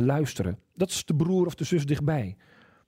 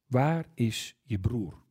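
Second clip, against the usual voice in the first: slow, lower, grave question from God; God's question; 5 semitones lower, much slower than usual. Acted. God asks Cain where his brother is, slow and grave. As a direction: let each word land, slowly and low.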